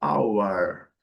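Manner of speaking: "hour" slow, with no R; British "hour"; British pronunciation. Shown as a demonstration. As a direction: say "hour" as /aʊə/, drawn out. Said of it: "letra R não é pronunciada".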